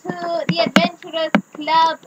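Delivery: put-on welcoming club host with a French accent; playful French-accented greeting. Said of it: "French accent, s'il vous plaît".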